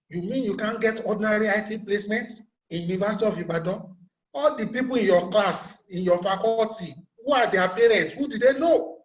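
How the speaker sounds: retold disbelief, pitch and volume climbing to the end; quick start, rising into indignant questions; incredulous challenge. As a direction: demand answers, recalling your own disbelief. Retells his challenge to brother.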